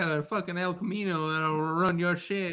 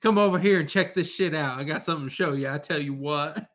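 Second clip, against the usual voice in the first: louder twangy call; a light hillbilly holler at the Jersey boy; hillbilly talk; 3 semitones higher, 4 dB louder than usual. Retold or imitated. To a coworker from Jersey, a lightly louder hillbilly call. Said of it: "I called somebody Big Shoots today".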